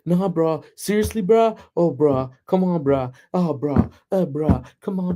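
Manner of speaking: lightly mimicked young girls' chatter; a hint of teenage girl banter; girls' slang talk. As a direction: rattle off teen slang in mild mockery. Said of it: "listen to the girls talk now".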